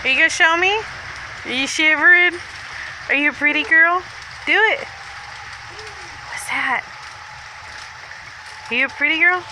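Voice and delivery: talking to a dog. Real, not acted. Cooing at the dog.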